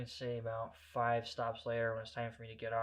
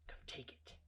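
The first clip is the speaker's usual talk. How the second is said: very soft, menacing whisper; hushed challenge; whispered dare; 15 dB quieter than usual. Retold or imitated. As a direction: goad him under your breath. Goading the bully.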